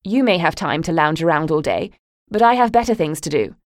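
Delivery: cold dismissal. Acted. Mother coolly telling her daughter to hurry off. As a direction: brush her off impatiently. Mother's cutting parting jabs.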